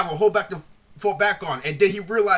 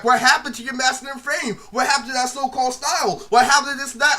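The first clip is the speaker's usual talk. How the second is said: mock taunting; 5 semitones higher than usual. To Livingstone after he kicked him out: climbing mocking taunt. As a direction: rub it in, voice climbing.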